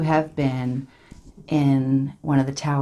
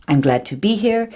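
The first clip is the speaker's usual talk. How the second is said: bright, recited business English phrase; rehearsed presentation line; 5 semitones higher than usual. Retold or imitated. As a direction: say it like a memorized opener. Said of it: "something I learned to say when I did my course in business English".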